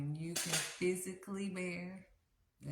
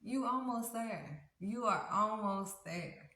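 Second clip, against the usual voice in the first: gently urging God; 4 semitones higher, 3 dB louder than usual. Acted. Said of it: "And God is like".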